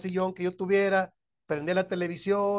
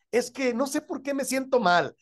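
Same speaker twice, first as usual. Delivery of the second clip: a high, whiny voice for the one making excuses; mock whiny excuse; 7 semitones higher than usual. Pastor voicing a congregant dodging the question, high and whiny. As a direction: sound like someone dodging the real reason. Acted argument over hidden feelings.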